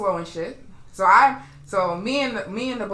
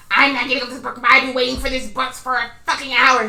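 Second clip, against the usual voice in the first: retold refusal; 3 semitones higher, 4 dB louder than usual. Retold woman refusing to leave bus.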